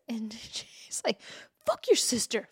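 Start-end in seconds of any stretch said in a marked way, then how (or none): 1.7-2.5 pissed. Retold or imitated. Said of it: "All pissed".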